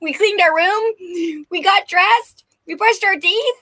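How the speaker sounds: put-on high, pleading child's voice rising to the last question; begging little kid. Guides as children begging their parents, high pleading kid. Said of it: "Like little kids that ask their parents".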